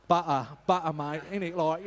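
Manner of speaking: playful put-on London accent, loud; a quick jokey London voice on butter and innit; mock London accent. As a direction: slip into a cheeky London accent for a joke. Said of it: "I thought I was a Londoner for a minute there".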